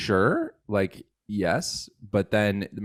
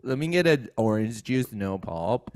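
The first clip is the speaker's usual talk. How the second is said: raised, high-pitched joking plea for juice; mock embarrassed order; 7 semitones higher, 4 dB louder than usual. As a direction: call it out high and loud, then tail off. Joke of ordering juice, asked louder.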